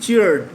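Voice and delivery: চিয়ার্ড said in a single beat; one syllable. Shown as a demonstration. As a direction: say চিয়ার্ড at once, unbroken. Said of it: "একবারেই বলতে হবে". (চিয়ার্ড একবারে বলা)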